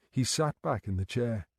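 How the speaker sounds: plain reading voice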